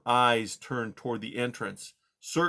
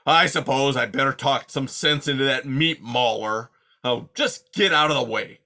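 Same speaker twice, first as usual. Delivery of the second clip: snarled; 2 semitones higher, 6 dB louder than usual. Acted. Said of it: "he snarled".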